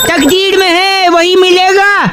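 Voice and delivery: slow, drawn-out verse line; mock shayari recital. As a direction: recite it as a robber playing poet. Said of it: "मैं एक शायर हूँ".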